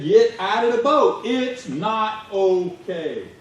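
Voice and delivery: loud order, then a slow drawn-out ending; hammed-up urgent captain; urgent warning. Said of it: "knew what was happening and said".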